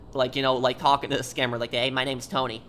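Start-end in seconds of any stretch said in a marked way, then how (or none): 1.7-2.6 put-on light New York accent; a hint of a typical New Yorker accent; casually put-on New York accent; Tony. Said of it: "like, New Yorker accent".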